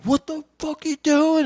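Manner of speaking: high, loud imitation of startled children; shocked kids. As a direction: squeal it like a stunned kid. Other kids shocked at smoking.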